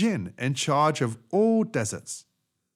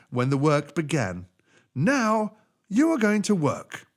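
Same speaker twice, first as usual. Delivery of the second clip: slow, louder djinn lecture; djinn lecturing; 4 semitones higher, 4 dB louder than usual. Acted. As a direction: spell out the punishment.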